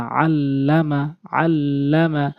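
slow drawn-out আল্লামা with the ল held double; tashdid doubled. Shown as a demonstration. Teacher drilling students on tashdid, slow doubled আল্লামা. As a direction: stretch আল্লামা, doubling the ল clearly. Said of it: "তাকে দুইবার উচ্চারণ করতে হবে".

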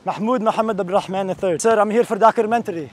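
put-on lightly accented, formal name-giving; foreign baller character. Visitor explains he came for documentary, foreign baller character. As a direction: present yourself as a visiting foreign player.

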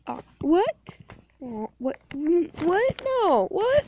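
high, rising what; mock outraged disbelief; indignant what. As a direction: pretend offended at the insult.

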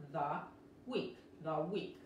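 THE with tongue between the teeth before WEEK; TH demo. Shown as a demonstration. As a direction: model THE WEEK carefully, voiced TH. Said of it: "tienen que meter la lengua entre los dientes".

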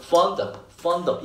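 Fond of run together as fandab; linked pronunciation. Shown as a demonstration. Teacher shows students fond of linked as one word. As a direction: glide fond straight into of. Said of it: "of 같은 거 정말 안 들려요".

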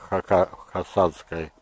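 ordinary delivery

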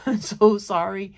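giggly apology, through laughter; laughing apology. Real, not acted.

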